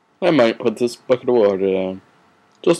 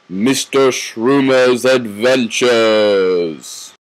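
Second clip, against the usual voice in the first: show announcer; 3 dB louder, much slower than usual. Acted. Cartoon show title announcement.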